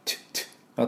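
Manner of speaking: チュッ as soft bursts with no vowel; voiceless "ch". Shown as a demonstration. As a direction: make チュッ with air only. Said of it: "このチュッ".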